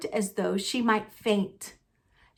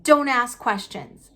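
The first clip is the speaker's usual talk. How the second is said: snapped; 3 dB louder than usual. Acted. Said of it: "snapped his uncle".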